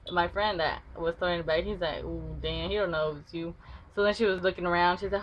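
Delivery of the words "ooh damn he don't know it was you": hushed aside. Retold or imitated. Friend whispers to narrator.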